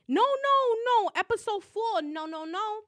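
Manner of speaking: high, loud no no no; protesting no. Real, not acted. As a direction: stop yourself mid-sentence, loudly. Stops herself, wrong episode.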